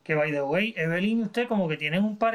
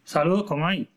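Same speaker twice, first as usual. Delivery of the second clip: dopey deep voice. Pretend. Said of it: "Ese sí tiene voz de bobolón".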